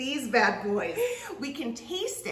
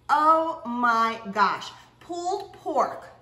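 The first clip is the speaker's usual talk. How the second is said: excited; 6 dB louder, much slower than usual. Real, not acted. Admiring finished sandwich.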